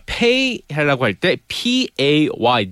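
slow letter-by-letter spelling. Shown as a demonstration. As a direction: spell each letter slowly. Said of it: "spelling word aloud".

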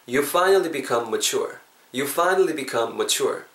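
very slow, careful English; slow demo. Shown as a demonstration. Teacher joins the full sentence slowly for students. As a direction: spell it out word by word. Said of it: "합치면은요".

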